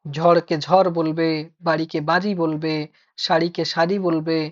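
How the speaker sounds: ঝড়, বাড়ি, শাড়ি said slowly with ড় turned into a plain র; slow, swap the flap ড় for a plain র; mock mispronunciation. Shown as a demonstration. Teacher mimicking careless speakers' wrong র. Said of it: "যারা ডয় শূন্য রকে র বলে".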